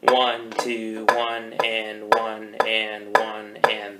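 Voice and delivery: slow, even two-to-a-beat counting; steady, measured "one, and" pulse; duple count. Shown as a demonstration. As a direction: count "one, and" evenly in pairs. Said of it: "beat rather than one".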